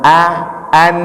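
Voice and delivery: "A, an" with a plain glottal start; ordinary a. Shown as a demonstration. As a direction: keep "A" free of throat squeeze. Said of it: "A biasa".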